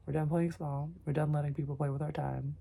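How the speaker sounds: firmer, surer second take; confident retake. Shown as a demonstration. Correcting her own affirmation, now firm and sure. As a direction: own the line this time. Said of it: "That's better".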